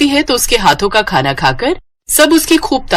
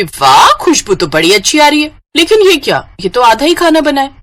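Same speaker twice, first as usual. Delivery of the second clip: higher, snide disbelief; sister-in-law taunting the new bride, higher and snide; mock shock; 6 semitones higher than usual.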